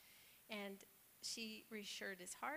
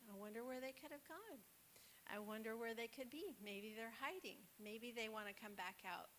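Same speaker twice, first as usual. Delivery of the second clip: gentle coaxing; 3 dB quieter than usual. Retold or imitated. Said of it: "she just coaxed him along".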